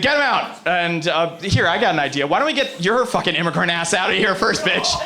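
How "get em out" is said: put-on higher-pitched, botched Irish accent; mock a ranting speaker in poor Irish; bad Irish accent. Comic mimics fighter ordering immigrants out, bad Irish accent. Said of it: "I can't do an Irish accent".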